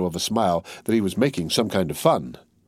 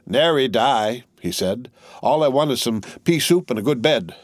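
weary tattered soldier; 4 semitones higher than usual. Acted. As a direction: shrug off the death, then admit he's ailing.

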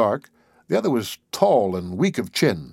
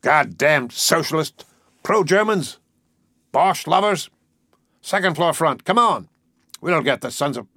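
higher-pitched jeering crowd calls; mob cries; 5 semitones higher than usual. A narrator's reading. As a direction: call out like an angry mob, short of full volume. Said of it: "their cries were now quite audible".

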